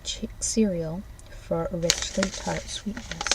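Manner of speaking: packaging copy read aloud. Acted. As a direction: sell it like a breakfast ad.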